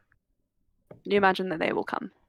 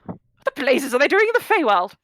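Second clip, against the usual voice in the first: put-on very old man; 3 semitones higher, 3 dB louder, faster than usual. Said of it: "ancient old man".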